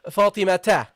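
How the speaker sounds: "Fatimata" with a full final ta; ta ending sounded. Shown as a demonstration. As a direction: carry the name through to "ta" in "Fatimata". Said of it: "you have to pronounce this ta".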